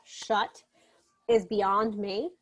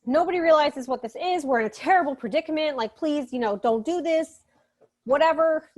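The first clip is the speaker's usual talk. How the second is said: higher, mildly panicky retelling; lightly acted pleading, pitched up; kind of panicked; 4 semitones higher than usual. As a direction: play mild mock panic. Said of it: "is kind of panicked".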